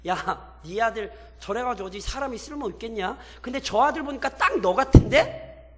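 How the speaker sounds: jab at the father through his son; sarcastic jeer. Acted. Captive kings needling Gideon about his son, sarcastic. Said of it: "비꼬는 거예요".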